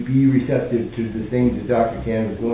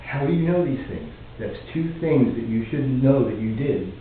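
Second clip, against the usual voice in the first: retold surprise in his own voice, accent dropped; understated surprised quote without the accent; mild surprise; 3 dB quieter than usual. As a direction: lightly retell her puzzled surprise. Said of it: "She said with surprise".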